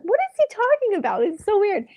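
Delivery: high, incredulous what, pitched well up; confused disbelief; baffled. Retold or imitated. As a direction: sound totally lost about what he means. Baffled by his offer.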